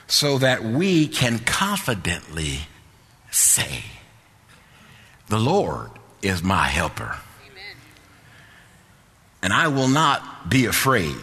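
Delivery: slow, measured reading with long pauses; deliberate scripture reading. Acted. Preacher reading a verse to the congregation, slow and deliberate. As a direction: let each phrase of the verse land.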